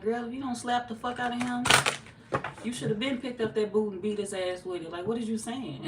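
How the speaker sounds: high, exasperated talking back to the screen; mock screaming at TV. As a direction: scold the character through the TV, half-yelled. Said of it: "I was screaming at the T V".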